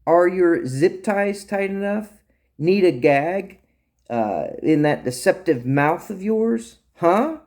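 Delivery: scolding. Acted. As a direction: scold the prisoner with sharp questions. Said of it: "she scolded him".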